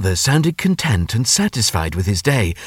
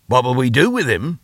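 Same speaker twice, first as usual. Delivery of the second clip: higher, rising echo of the question; 4 semitones higher than usual. Acted. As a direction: throw the question back, rising at the end. Father echoes mother's question.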